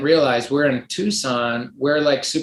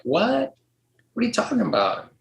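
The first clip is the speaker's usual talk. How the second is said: high incredulous what, pitched way up; baffled friends; 9 semitones higher, 3 dB quieter than usual. Retold or imitated. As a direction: squeak it out like you can't believe him. Friends shocked by package detour.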